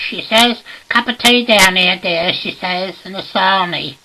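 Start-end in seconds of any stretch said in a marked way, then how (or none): 0.9-2.3 high, loud housewife call; acted high-pitched domestic shout; shouting upstairs. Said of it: "she shouts up the stairs". 3.0-4.0 high-pitched tail of a housewife's call; acted high domestic call; shouting upstairs. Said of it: "she shouts up the stairs".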